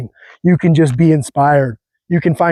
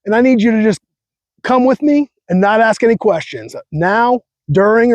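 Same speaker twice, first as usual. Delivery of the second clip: lightly voiced tough movie guy, pitched higher; a hint of a gruff bank robber giving orders; quoting a heist movie line with a touch of swagger; Ben Affleck; 5 semitones higher than usual. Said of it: "he's like".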